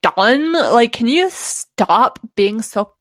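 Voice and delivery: put-on drawn-out valley girl whine; exasperated valley girl act, vowels stretched. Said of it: "he hates when I'm like".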